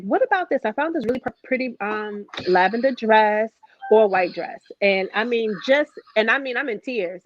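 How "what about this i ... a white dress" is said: cheery mother voice. Retold or imitated. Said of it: "was like".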